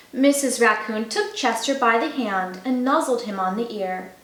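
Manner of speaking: gentle storybook narration; reading to children. A narrator's reading. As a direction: read it like a bedtime story. Reads a picture book to children.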